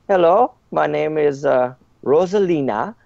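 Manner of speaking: put-on stereotypical French accent. Maid introducing herself to the questioner, stereotypical French accent. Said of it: "she speaks in a, a bit of an accent".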